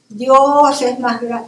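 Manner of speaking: preacher voice. Retold or imitated. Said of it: "me sentí predicador".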